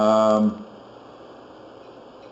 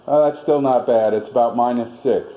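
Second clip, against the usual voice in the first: ordinary talk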